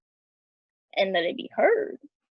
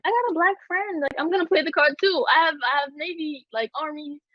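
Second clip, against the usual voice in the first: pitched-up, lightly mocking voice; 5 semitones higher than usual. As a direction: sneer it out in a higher imitation. Mocking a clueless white person.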